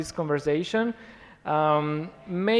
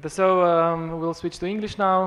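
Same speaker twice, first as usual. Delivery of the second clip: switching between two languages; 5 dB louder than usual. Real, not acted. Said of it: "bom zdaj preklopil na angleščino".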